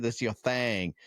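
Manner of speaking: "That's your thing" with a lightly put-on Texas twang. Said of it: "I'm trying to do a little twang to it".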